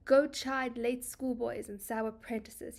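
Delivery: a firm, bossy command; demanding. Acted. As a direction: order the sun away. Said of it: "he's very demanding".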